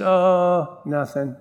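evasive, dropping away on the last word; choking on the answer. Retold or imitated. Young Christian dodging old friend's question, sheepish. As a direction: imitate a sheepish dodge. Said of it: "I choked a couple times".

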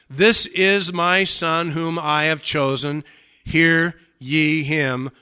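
loud, slow proclamation; voice of God. Acted. Preacher quotes what the Father said, proclaiming. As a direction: declare it weightily, word by word.

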